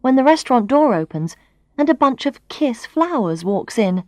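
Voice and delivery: ordinary delivery, nothing marked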